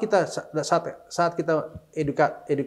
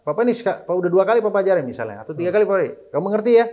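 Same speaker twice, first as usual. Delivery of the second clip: nada ayah mengajar, lebih tinggi; ayah mendidik; 4 semitones higher, faster than usual. Retold or imitated. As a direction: sedikit menirukan ayah yang menasihati anak. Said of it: "intonasi beda". (ayah mengajari anak, nada tinggi tegas)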